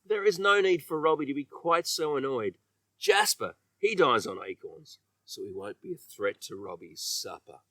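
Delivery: ordinary delivery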